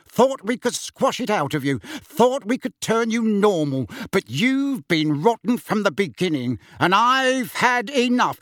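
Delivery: worked-up, rising tirade; angry rant. Acted. Uncle ordering the boy out of the house, angry rant.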